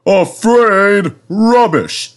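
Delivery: high-pitched indignant denial; puffed-up, offended exclamation; huffy. A narrator's reading. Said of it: "said Gordon huffily".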